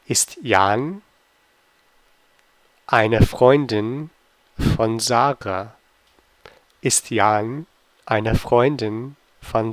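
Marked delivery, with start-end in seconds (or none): 0.1-5.8 slow quiz read with pauses between parts; slow, chunked question. Shown as a demonstration. Teacher quizzing German learners, slowly and in chunks. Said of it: "teacher reads quiz question twice".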